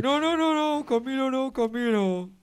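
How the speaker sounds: distorted voice changer; disguised deep voice. Real, not acted. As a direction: voice run through a distorter. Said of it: "se escucha raro mi voz, eh, con el distorsionador de voz".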